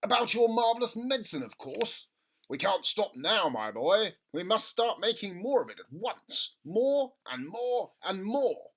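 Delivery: gushing over a money-making idea; excited father. A narrator's reading. Father urging his son at breakfast, excited.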